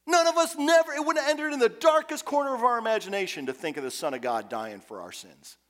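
fervent preaching. Acted. Preaching at full force.

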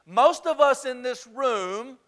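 "Most of us in this room" slowed and stretched; slow emphatic. Shown as a demonstration. Preacher repeating for note-takers, slow and weighty. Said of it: "write this down".

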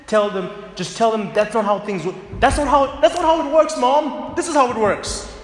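put-on rising into a high, loud teenage shout at mom; a cocky kid shouting down his mother; snappy teenager. Teen shouting back at mom, high and loud.

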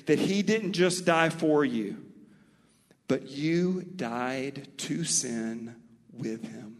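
slowing on the second half; emphatic. Shown as a demonstration. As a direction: lean into you died to sin. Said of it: "Let me say it again".

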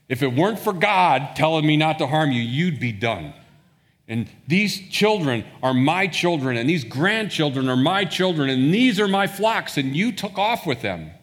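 loud, high, angry retold outburst; furious Laban. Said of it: "you can tell he's furious".

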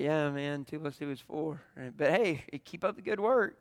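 patronizing, talking down to someone; condescending tone. Shown as a demonstration. Pastor demonstrating to the congregation how people talk down, condescending. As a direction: pat them on the head with your words. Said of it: "you can have a condescending tone".

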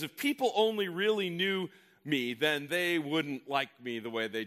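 a hint of anxious self-talk; inner voice. Pastor acts out the hidden inner fear, lightly. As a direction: lightly voice the fearful inner critic. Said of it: "little voice in your head that says".

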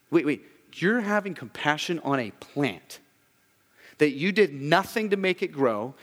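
hint of a rebuking God; preacher voicing God scolding Jonah; God confronting Jonah.

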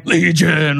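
drawn-out mock demonic roar; mock demon horde. Two thousand demons answering Jesus, hammed-up demonic cry. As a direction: stretch it out like a hammed-up screamo singer. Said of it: "two thousand demons responding".

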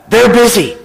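put-on hushed, childlike matter-of-fact reply; whispering small child. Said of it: "a small voice whispered".

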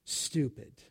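a hint of a cutting mother; lightly voiced belittling mom; mild mock contempt. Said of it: "Or even this one".

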